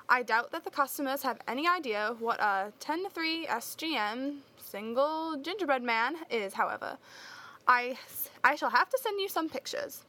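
put-on light British accent reading a letter. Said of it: "I will try to read it in a British accent".

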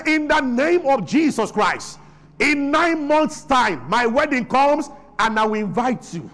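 slow, firm declaration of faith; bold decree. Shown as a demonstration. Single woman to mocking relatives, slow bold decree. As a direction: proclaim it slowly like a command.

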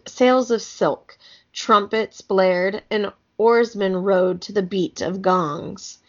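measured, clearly phrased storybook reading; story narration. A narrator's reading. Reading an Egyptian kids' book aloud, storybook narration. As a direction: read the tale aloud with care.

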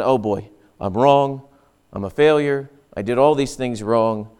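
low, deflated self-blame; mildly dejected. Acted. Rebuked believer sitting there blaming himself, mildly dejected. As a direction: act out a downcast admission, voice dropped.

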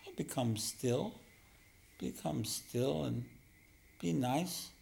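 slow, gently coaxing appeal; sweet coaxing. Shown as a demonstration. Teacher showing how to talk to one's own mind, sweetly coaxing. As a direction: coax softly and slowly, drawing out the words. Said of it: "You talk to the mind like that".

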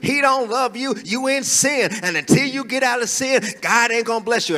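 harsh condemning preacher. Shown as a demonstration. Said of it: "how would you feel right now if I told you".

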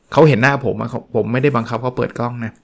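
ordinary delivery

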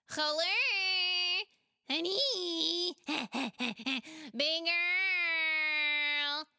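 put-on high, loud giggly child greeting; a happy kid calling to friends; child shouting with a laugh. Pela greets his friends, shouting and giggling. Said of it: "he shouted".

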